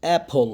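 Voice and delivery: careful, standalone অ্যাপল with opening "ae"; model pronunciation. Shown as a demonstration. Teacher models the word for students, careful pronunciation. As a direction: say অ্যাপল with an open "ae" at the start. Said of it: "উচ্চারণ".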